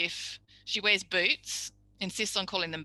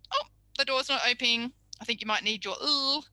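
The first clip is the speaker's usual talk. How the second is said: higher, playful teacher voice; mock disappointment; 5 semitones higher than usual. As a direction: tease the child kindly. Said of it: "And then he'd go".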